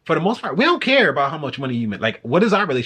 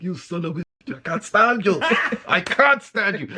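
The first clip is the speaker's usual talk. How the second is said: imitating an annoyed wife; 5 semitones higher than usual. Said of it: "she looking at him like".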